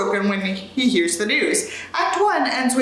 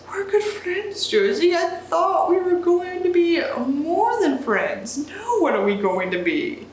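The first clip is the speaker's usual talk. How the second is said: British Sanders; 5 semitones higher, slower than usual. Acted. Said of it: "I can't do a British accent".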